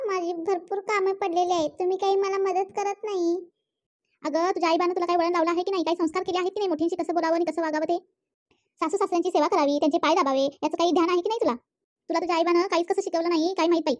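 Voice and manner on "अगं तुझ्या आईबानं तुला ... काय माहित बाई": mother-in-law scolds her daughter-in-law; scolding mother-in-law. Acted. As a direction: scold her for her lack of manners. Mother-in-law scolds about upbringing.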